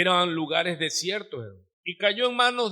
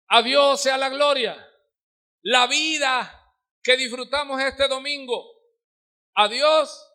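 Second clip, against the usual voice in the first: higher, louder fervent preaching; preaching at full force; 4 semitones higher, 5 dB louder than usual. Acted. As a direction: preach it out to the congregation.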